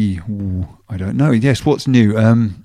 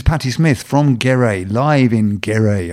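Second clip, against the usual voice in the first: savoured slowly; much slower than usual. Real, not acted. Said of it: "I can't even believe I'm saying it".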